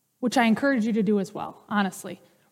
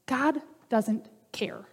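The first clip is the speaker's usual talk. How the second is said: slow, soft unvoiced whisper; 6 dB quieter, slower than usual. Preacher to the congregation, a slow hushed whisper. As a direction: lean in and breathe it like a secret. Quiet aside in a sermon.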